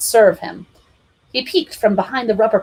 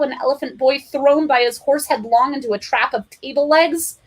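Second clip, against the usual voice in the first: plain reading voice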